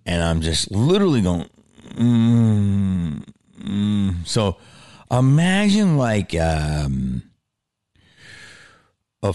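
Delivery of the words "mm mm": long closed-mouth "mm" moan; imitated sick groan. Storyteller huddled under the blanket, imitated sick moaning. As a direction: groan through shut lips.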